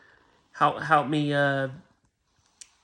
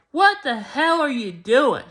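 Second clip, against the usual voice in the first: retold angry yell; 8 semitones higher than usual. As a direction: shout it like the furious neighbor catching you. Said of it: "comes out and screams at me".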